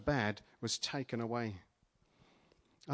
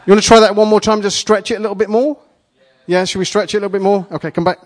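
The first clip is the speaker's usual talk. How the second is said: excited call; 7 semitones higher, 17 dB louder, faster than usual. Real, not acted. Excited instructions to the volunteers.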